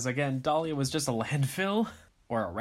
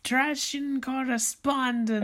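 announcer voice; 13 semitones higher than usual. Pretend. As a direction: introduce her like a host. Announcing drag host.

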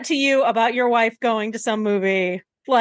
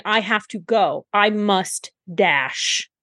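slow, clipped dash; 3 semitones lower, slower than usual. Retold or imitated. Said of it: "he was saying".

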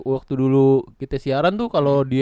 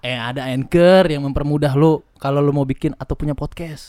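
ad read. Acted. Sponsor ad read.

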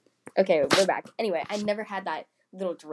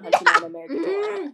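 laughing; 12 semitones higher, 9 dB louder than usual. Real, not acted. Laughing wildly at own words.

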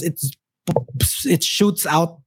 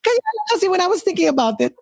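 laughing; 5 semitones higher, faster than usual. Real, not acted. Explaining joke while laughing.

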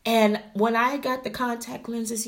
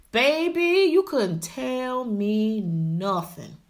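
sassy boast; much slower than usual. Real, not acted. Strutting boast.

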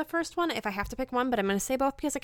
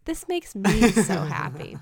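happy echo; 5 dB louder, slower than usual. Retold or imitated. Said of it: "And I'm like".

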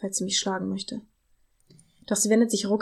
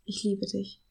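trembling voice; 5 dB quieter, slower than usual. Acted. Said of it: "seine Stimme zittert".

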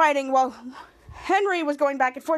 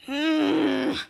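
grunt. Retold or imitated. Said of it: "and he grunts".

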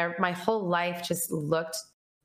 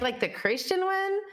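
much higher incredulous question; shocked disbelief; 13 semitones higher than usual. Retold or imitated. Asking God which one he is, much higher and shocked. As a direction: squeak it in disbelief. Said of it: "I was so shocked".

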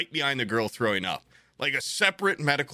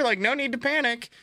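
high put-on stewardess voice; cabin announcement; 12 semitones higher than usual. Crew addresses the whole plane, cabin announcement. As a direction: imitate an intercom reassurance, pitched up. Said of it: "they have to give an announcement".

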